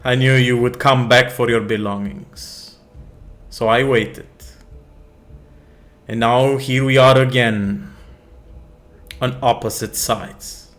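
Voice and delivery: menacing vizier. Acted. Grand Vizier reveals himself.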